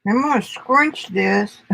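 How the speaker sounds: talking around a pin; words slurred round a pin; pins in mouth. Real, not acted. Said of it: "I got a pin in my mouth".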